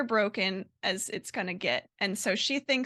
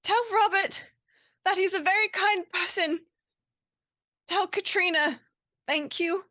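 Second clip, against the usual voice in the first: high, halting farewell shout, only mildly raised; restrained in-character shout, pitched up, with long pauses; calling out; 6 semitones higher than usual. Acted. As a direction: call last words out in character, in short phrases. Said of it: "and she shouts".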